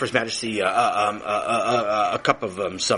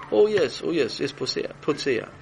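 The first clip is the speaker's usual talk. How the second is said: sudden recognition; 4 semitones higher than usual. Acted. Recognizing the word.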